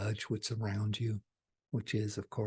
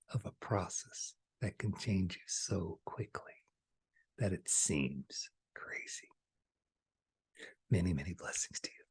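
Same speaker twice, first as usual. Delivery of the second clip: whisper; 2 semitones lower, 5 dB quieter than usual. Acted. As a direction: bless them softly as you close. Closing blessing to viewers.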